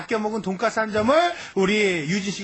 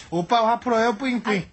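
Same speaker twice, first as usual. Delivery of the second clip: lightly cutesy aegyo; 3 semitones higher than usual. Shown as a demonstration. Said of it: "요 정도는 뭐".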